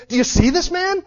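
proclaiming Festus. Acted. Festus standing up to present Paul to Agrippa, loud proclamation. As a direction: announce him to the whole hall. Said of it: "Festus stands up and says".

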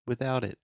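"Without it" with the T held, not released; stop T. Shown as a demonstration. Teacher showing the unreleased T. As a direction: stop the tongue on the T of "without", no puff of air. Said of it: "You hear that?".

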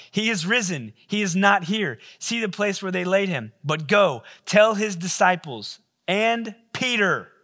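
an angel announcing news too big to hold back; angel's proclamation. Acted. Angel telling the women at the tomb, proclaiming loudly.

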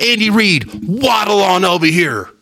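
high, slow mock-announcer call; mocking Terry Bradshaw. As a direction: lightly ham up the TV host summoning the coach. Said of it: "He was like".

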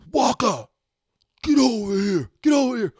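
high, loud holler across a crowd; calling out. Retold or imitated. Tyler summons Walker to meet his teacher, calling out. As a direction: call him over from a distance. Friend calls player over.

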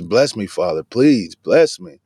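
retold plea rising into a drawn-out please; mildly impassioned imitation of begging; desperate plea. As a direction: act out an upset son begging. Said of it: "He's so angry".

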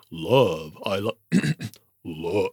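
straining deep voice. Pretend. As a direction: strain down toward a bass voice. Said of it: "you would keep trying to go lower".

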